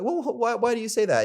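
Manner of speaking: girl asking why he said it, mock indignant; mock offended girl. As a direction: play the girl taken aback. Voicing the girl's reply.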